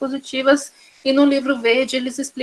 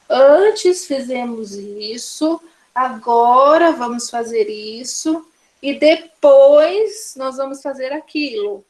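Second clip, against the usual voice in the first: slow, step by step; walk the child through it slowly; slower than usual. Shown as a demonstration. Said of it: "eu posso falar pra ela". (devagar e didático, falando com a criança)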